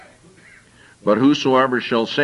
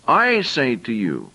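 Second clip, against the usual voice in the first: slow, "I" stressed, falling; emphasized I; slower than usual. Shown as a demonstration. Preacher repeating Jesus' phrase, slow stress on I. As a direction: spell out each word with weight on "I". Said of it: "now I want to emphasize".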